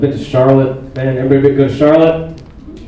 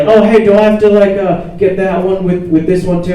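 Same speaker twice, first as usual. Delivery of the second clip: mock flustered kid, higher and louder; nervously fumbling, hammed up a little; 6 semitones higher, 4 dB louder than usual. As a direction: imitate someone rattled and stalling. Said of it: "when he's, like, all flustered".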